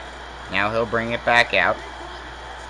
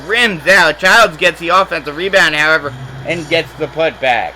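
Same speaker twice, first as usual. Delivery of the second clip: higher, louder quick call; excited call; 3 semitones higher, 3 dB louder than usual. Real, not acted. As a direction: pick up the energy on the scramble. Rebound scramble call.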